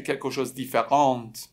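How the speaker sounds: "کلکوشوز" run straight into "دیفرانت"; wrong form without "de". Shown as a demonstration.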